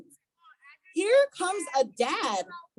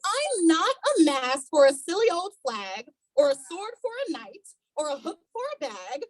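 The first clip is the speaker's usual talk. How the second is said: protesting Stickman. Acted.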